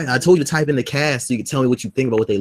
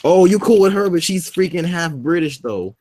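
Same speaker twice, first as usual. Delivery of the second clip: mock disbelief; 7 semitones higher, 3 dB louder than usual. Real, not acted. Mocking friend's pick.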